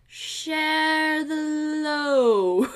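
slow, drawn-out line broken by laughter; mock Frodo line dissolving into laughs; laughing through the quote. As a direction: stretch it out while cracking up. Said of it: "he's like".

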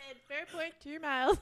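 mock sat-nav; Siri voice. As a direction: giggly attempt at a navigation assistant. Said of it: "You should be a Siri voice".

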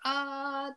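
held cry, without shouting; imitated film cry. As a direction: mildly imitate a character's cry. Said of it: "デイビーの声が".

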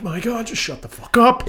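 high, exasperated mock plea; exasperated inner voice. Annoyed moviegoer voicing his thoughts about the talker. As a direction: whine it up high in disbelief. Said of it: "it's like".

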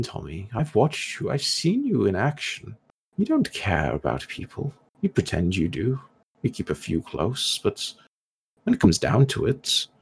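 lightly voiced, deliberate villain monologue; taunting villain. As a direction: needle the hero with swooping pitch and measured pauses. Villain taunts hero in his head.

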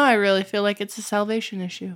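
quick, dry sarcastic aside; deadpan joke, tongue in cheek. Real, not acted. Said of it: "When I'm sarcastic on a podcast".

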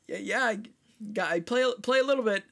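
halting, stammered answer with gaps; awkward reply. Retold or imitated. Harmonica player answering a stranger, awkward and halting. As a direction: imitate an awkward, hesitant reply. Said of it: "exact same awkward silence".

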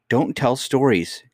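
slow, high-pitched rebuke; sharp nurse's reprimand, drawn out; rude cry. Acted. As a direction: rebuke the child rudely, stretching each word. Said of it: "cried her nurse quite rudely".

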